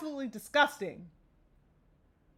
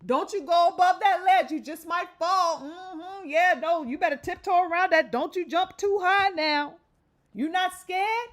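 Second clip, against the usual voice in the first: mock fearmonger; 3 semitones higher than usual. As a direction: imitate someone trying to plant fear, lightly mocking. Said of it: "steadily trying to insert fear".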